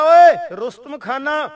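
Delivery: slow, loud challenge to the foe; calling out. Retold or imitated. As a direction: call his name across the field, drawn out. Warrior calls out to foe.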